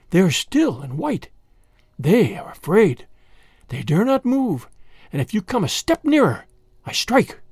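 lightly voiced, deliberate snake threat; menacing cobra. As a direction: gloat over helpless victims with a hint of menace.

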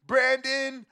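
high squeaky helium voice. Real, not acted. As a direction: chipmunk pitch from the sound pad. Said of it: "that was a helium button".

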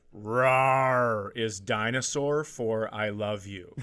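slow, drawn-out cutesy line; sweet slow reading. Retold or imitated. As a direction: read it like a kids' sign. Reading childish craft slogan.

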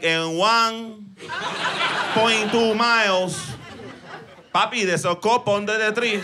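slow, lightly Latino navigation voice; Latino Waze voice. Retold or imitated. Comic's Latino Waze app giving directions, lightly Mexican-accented. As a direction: drawl it out like a friendly Mexican GPS. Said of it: "It's a little Mexican guy".

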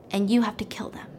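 conspiratorial whisper. Retold or imitated. Wife tells the cop to kill them, whispered. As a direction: breathe the order to kill.

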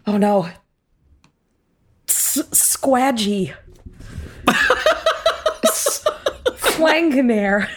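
sad roll call broken by laughter; name each lost friend, slowly, cracking up; mock dismay. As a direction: player character naming old comrades, laughing. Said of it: "I'm just like".

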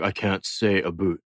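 slow mock Canadian "boot"; lightly teasing Canadian accent. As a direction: imitate a Canadian, slowly. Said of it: "his Canadian accent is thick".

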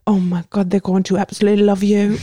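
attempted French accent, slipping toward Australian; bad French accent. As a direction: badly imitate a Frenchman's English accent. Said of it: "I cannot do a French accent".

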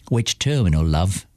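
put-on a light London cockney accent, friendly. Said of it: "said to Dana in his London accent".

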